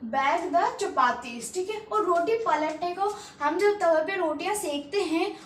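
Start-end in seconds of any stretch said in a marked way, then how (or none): 0.0-1.5 slow, word by word; slow model phrase; slow teaching repeat. Shown as a demonstration. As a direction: repeat it slowly for learners. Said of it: "English में बोलते हैं bake the chapatis".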